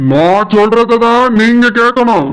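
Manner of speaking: a lightly voiced stern elder brother-in-law; a hint of a stern older brother. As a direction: scold him as the wife's protective brother. Brother-in-law gives orders.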